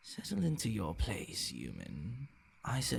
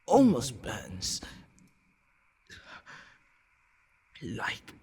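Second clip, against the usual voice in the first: alarmed confusion; 2 semitones higher than usual. Acted. Vampire confronting the human about poisoned blood, alarmed. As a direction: panic rising as the body betrays you. Vampire feels strange after drinking.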